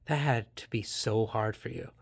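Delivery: quiet, tender apology to a partner; empathic reply. Shown as a demonstration. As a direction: say it like you truly feel their hurt. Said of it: "listening with empathy ... and say".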